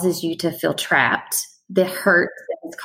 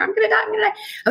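much higher and fast, a frantic anxious repeat; mock panic attack, high and rushed; panicked; much faster than usual. Shown as a demonstration. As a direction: blurt it out like panic is taking over. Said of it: "there's this feeling there".

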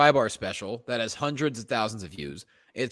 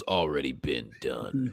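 deadpan retort; 12 semitones lower, 7 dB quieter, slower than usual. Retold or imitated. Retold quip in deadpan voice.

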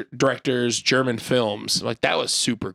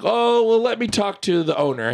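lightly voiced helpful shop assistant, pitched up; helpful bakery lady; 8 semitones higher than usual. Bakery lady to customers asking for tapes, helpful. Voicing one of the bakery ladies.

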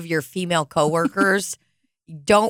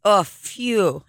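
mom's "phew". Retold or imitated. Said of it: "what my mom always says when something's stinky".

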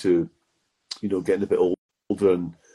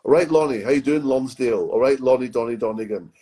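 pushy shop salesman; 4 semitones higher than usual. Retold or imitated. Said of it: "let's say your name's Lonnie".

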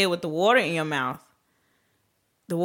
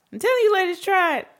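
high, calling to ladies; emphatic; 12 semitones higher than usual. Real, not acted. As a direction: urge them, pitched up. Calling out to listeners.

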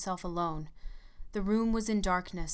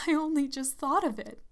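higher, breathless near-hysteria; hysterical; 7 semitones higher, 4 dB louder than usual. Acted. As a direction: blurt it out on the edge of hysteria. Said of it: "she said hysterically".

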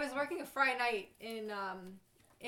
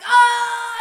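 much higher and louder whooping cheer; group cheer; 12 semitones higher, 20 dB louder than usual. Retold or imitated. Guys at the bar cheering the shot, loud whoop. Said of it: "they're all like".

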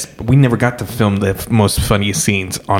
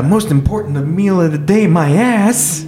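rising higher, mocking; sarcastic punchline; 9 semitones higher than usual. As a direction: build it up into a sneer. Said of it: "he says".

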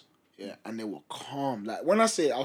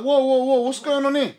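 loud, high alarmed whoa; shocked at razor blades, a startled loud outcry; 11 semitones higher, 11 dB louder than usual. Retold or imitated. Guy at a party sees lines laid out, startled loud outcry. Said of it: "It was like".

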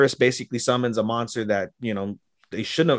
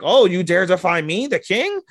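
outraged king; 9 semitones higher than usual. Retold or imitated. King orders guards to seize the defiant headmaster, outraged. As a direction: play the offended king, voice shooting up.

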